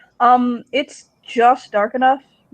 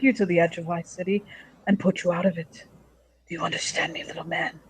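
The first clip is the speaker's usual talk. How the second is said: put-on Russian accent. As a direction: threaten with a Russian accent, trailing down to near-whisper. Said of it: "with, like, a Russian accent".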